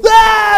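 loud high-pitched scream of panic; mock terrified scream. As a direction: scream like fleeing villagers, hammed up. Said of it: "And they go".

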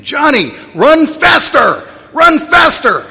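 mother shrieking at her slow son on the track; screaming mother. Retold or imitated. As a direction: yell from the stands like a desperate mom. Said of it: "she's screaming".

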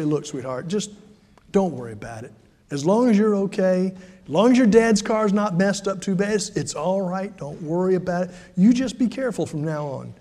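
calm her down, she's in tears; reassuring. Acted. Reassuring the crying neighbor girl.

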